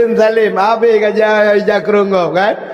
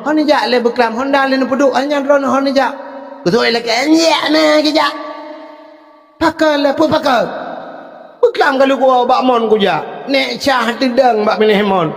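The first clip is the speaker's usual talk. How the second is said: retold shouting; 3 semitones higher than usual. Preacher retelling villagers calling out, mock shouting. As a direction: call out across the village, half in jest.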